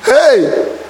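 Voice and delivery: amazed shout. Real, not acted. Marvels at a loyal friend.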